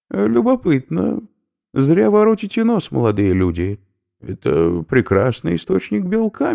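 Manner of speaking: high, loud lecturing professor; a delighted academic explaining his find; eccentric professor. Acted. Professor lectures captives on snail protein, high eager voice.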